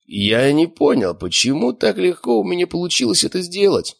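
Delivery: baffled, voice lifting high; puzzled question. A narrator's reading. Feigns puzzlement to the examiner.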